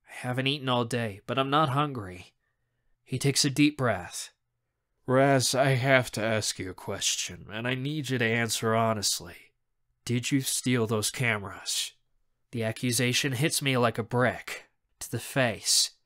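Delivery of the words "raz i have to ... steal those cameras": grave uncle. Acted. Uncle gravely questions Raz.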